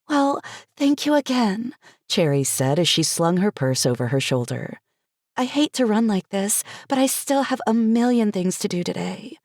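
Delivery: Cherry's voice. Acted.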